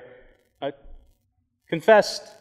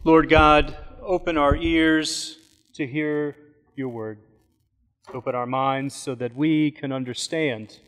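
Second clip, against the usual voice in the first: prayer. Acted. Opening prayer before sermon.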